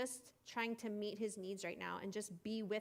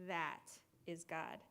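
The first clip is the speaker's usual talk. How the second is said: soft, slow and low; quiet wonder at the whisper; awed hush; 5 semitones lower, 5 dB quieter, slower than usual. Pretend. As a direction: breathe it out in awe. Elijah recognises God's whisper.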